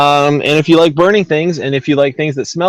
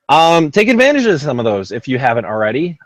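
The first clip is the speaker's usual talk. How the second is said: slurred. Real, not acted. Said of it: "I sounded like a drunk person".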